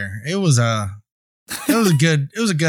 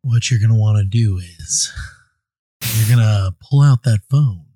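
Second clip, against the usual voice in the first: underwater voice. Pretend. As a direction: talk like you're speaking to fish underwater. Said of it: "my talking to the fishes underwater voice".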